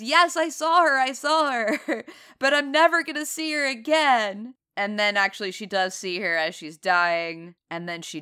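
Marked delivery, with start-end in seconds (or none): 0.0-4.5 hammed-up upset cry, pitched up; half-hearted dramatic outburst; mock upset outburst. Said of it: "she gets a little bit upset".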